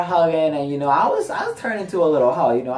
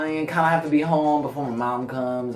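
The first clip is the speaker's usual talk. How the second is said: hesitant excuse; 3 semitones higher, slower than usual. Retold or imitated.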